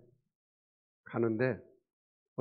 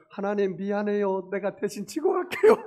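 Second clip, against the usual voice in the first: high, raised mock-apologetic voice; mock apology to God; 7 semitones higher, 7 dB louder than usual. Churchgoer to God, taking the burden back, mock apologetic. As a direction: playfully imitate a sheepish churchgoer, pitched up.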